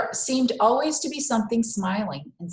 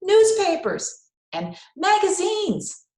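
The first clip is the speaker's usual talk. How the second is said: high, slow drawn-out vendor call; newsboy calls; 11 semitones higher, 5 dB louder, slower than usual. A narrator's reading. Newsboy calling papers in the station, drawn-out shout. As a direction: sing out the wares like a newsboy. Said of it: "he forgot to shout".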